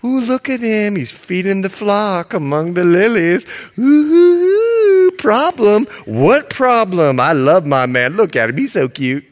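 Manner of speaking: dreamy gushing denial; lightly voiced swooning bride; lovestruck bride. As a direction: wave off the problem, swooning. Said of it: "She's living in la la land".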